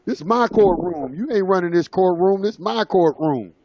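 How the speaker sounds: imitating a judge going off on him; retold angry rant. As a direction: lay down the law as an angry judge. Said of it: "she just started going off on me".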